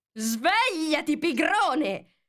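high, loud, slow call; imperious queen yelling to wake him; queen's exclamation. A narrator's reading. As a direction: rouse the sleeping griffin with a bossy shout. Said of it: "esclamò la regina".

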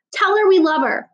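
put-on high, loud child's yell. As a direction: call it out across the car. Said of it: "Finn yelled".

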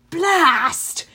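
irritated mutter, but forceful; muttered curse. A narrator's reading. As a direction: curse to yourself in frustration. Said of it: "Tantalus muttered".

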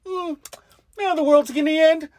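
indifferent turtle. Acted. Father mocking the nihilist turtle, drawn-out indifference. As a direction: stretch the words with hammed-up indifference.

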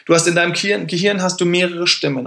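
normal talking voice

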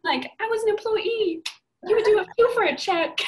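high, loud comic indignation; heated justification. Retold or imitated. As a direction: plead your case at full pitch. Carries on the heated mock boast.

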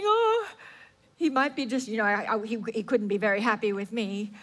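doubtful believer. Acted. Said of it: "we come to God thinking".

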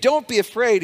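a commanding angel voice; angel's command. Acted. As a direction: call out "Don't be afraid" like an angel reassuring the shepherds. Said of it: "this is an angel speaking".

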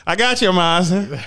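high, loud laughing "yes master"; mock servant. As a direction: play the eager servant, giggling.

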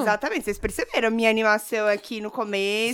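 hoarse, cracking voice; rough voice from a sore throat; cracked voice. Real, not acted. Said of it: "voz de taquara rachada".

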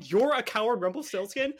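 a light Australian impression of Belle; Australian accent. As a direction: relish the Australian sounds. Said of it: "it really hits all the Australian sounds".

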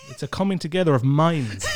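laughing through the line; a grand joke, broken up by laughter; laughing at own joke. Real, not acted. Laughing joke about podcast.

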